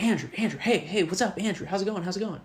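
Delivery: put-on excited little boy. Teacher retells hyper pupil greeting him, mock excited kid voice.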